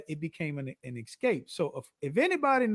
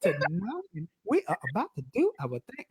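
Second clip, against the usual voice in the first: high radio host voice; 6 semitones higher than usual. Retold or imitated. Host greeting fans on his live show, high and hyped. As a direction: sing out the welcome like a live-stream host. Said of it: "the reason why I started talking like this".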